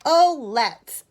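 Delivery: high, loud burst of agreement; keen child saying yes; eager agreement. A narrator's reading. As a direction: jump at the idea. Edith eagerly agrees to dress up.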